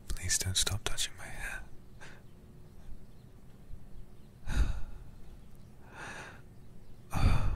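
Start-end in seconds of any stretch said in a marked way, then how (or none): 3.4-7.1 long soft whispered sigh; contented sigh. Acted. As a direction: let out a slow, contented sigh. Contented sigh while hair touched.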